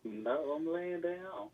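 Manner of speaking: relaxed low voice. Real, not acted. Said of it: "you don't talk like that".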